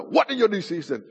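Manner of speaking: mock yell, pitch jumping up at the start. Grandfather to half-awake grandson, mild imitated yell. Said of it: "he yelled louder".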